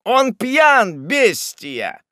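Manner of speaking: loud, high-pitched furious bellow; enraged old man's roar; terrible roar. Acted. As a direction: roar out the accusation in fury. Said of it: "заревел старик Уардель страшным голосом".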